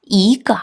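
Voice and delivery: 이 rising into a light 거; second tone. Shown as a demonstration. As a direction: read 이거 with 이 climbing and 거 short and light. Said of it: "요렇게 읽어줍니다".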